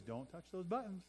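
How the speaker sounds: put-on a hushed warning voice to kids; parent warning. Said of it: "we tell our kids".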